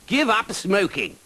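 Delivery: high, loud bold knight's call. Acted. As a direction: muster all the courage you can. Knight advises the dragon.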